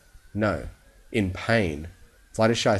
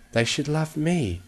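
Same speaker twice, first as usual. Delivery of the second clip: hissed; 7 semitones higher than usual. Acted. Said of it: "she hissed".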